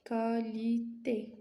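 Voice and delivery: qualité stretched syllable by syllable, slowly; slow teacher model of qualité; slow, drawn out. Shown as a demonstration. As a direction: spell it out slowly for the class. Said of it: "ممكن نقولو لا كاليتي".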